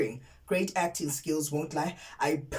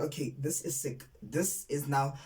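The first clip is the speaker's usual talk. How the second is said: mock disgust, dropping from soft to a whisper on the repeated sick; sick, sick whispered away in revulsion; disgusted, fading to a whisper; 3 semitones lower, 6 dB quieter than usual. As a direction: shake your head, trailing off into whispered sicks. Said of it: "I was like".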